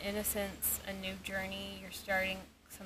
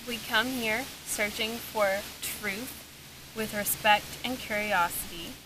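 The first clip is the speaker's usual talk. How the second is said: talking to a ghost. Real, not acted. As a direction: address the spirits respectfully. Opening a spirit session.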